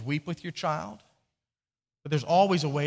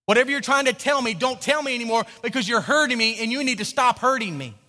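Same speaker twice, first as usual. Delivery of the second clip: louder, higher hurt pleading; mock tearful plea; 5 semitones higher, 5 dB louder than usual. Crying person begging the parent to stop hurting them. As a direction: voice the tears begging you to stop. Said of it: "what those tears are saying is".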